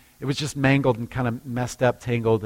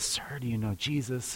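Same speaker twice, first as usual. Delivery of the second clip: gentle question; 13 dB quieter than usual. Retold or imitated. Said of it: "she says".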